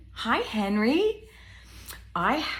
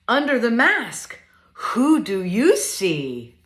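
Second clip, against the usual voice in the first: lively, sing-song picture book reading; reading to children; 5 dB louder than usual. Acted. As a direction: read it playfully to little ones.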